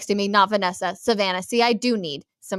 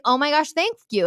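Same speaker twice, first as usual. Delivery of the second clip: flattered reply; 6 semitones higher than usual. Retold or imitated. Retold reply of flattered woman.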